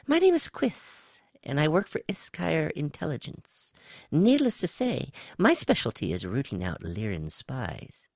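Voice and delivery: high, swooping alien voice; high-pitched reptile. A narrator's reading. Reptile spy introduces itself to Woe, high-pitched. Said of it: "A high-pitched voice came from his right".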